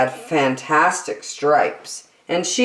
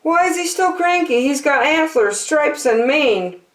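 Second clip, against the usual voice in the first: higher, puzzled lion; 11 semitones higher than usual. Acted. Lion hides in the bushes, puzzled and high. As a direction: wonder aloud, pitched up. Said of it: "Lion said".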